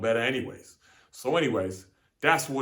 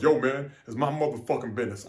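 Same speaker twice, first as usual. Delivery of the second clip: aggressive version; 3 dB louder than usual. Shown as a demonstration. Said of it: "I ain't say it like that".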